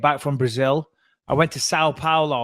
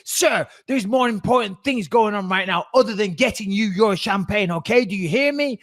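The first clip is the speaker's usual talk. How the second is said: mock scolding, pitched up, not truly screamed; retold angry bark; 5 semitones higher than usual. Air hostess scolding passenger over champagne, mildly mimicked angry bark. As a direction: imitate an irate hostess telling someone off. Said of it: "she barked at me. She screamed at me".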